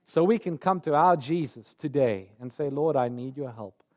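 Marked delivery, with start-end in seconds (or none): 2.7-3.8 humble prayer. Acted. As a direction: say it low and trusting, like a whispered prayer. Believer praying quietly.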